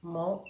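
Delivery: "Mon" said alone as a separate beat; isolated syllable. Shown as a demonstration. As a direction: set "Mon" apart as the closing syllable. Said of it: "deuxième syllabe".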